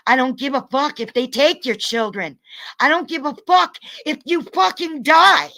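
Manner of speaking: angry yelling. Real, not acted. Furious rant at viewers.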